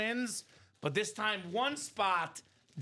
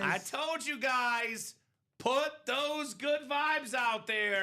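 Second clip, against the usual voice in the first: triumphant shout; 5 semitones higher, much slower than usual. Real, not acted. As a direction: crow over the lucky spin. Celebrating the wheel result.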